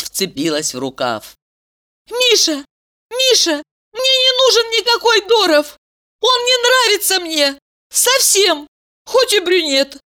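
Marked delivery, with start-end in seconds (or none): 2.1-10.0 put-on girl runs after him confessing love, high and pleading; crying out, pleading. A narrator's reading. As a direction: call out her love, urgent. Valeria's voiced lines.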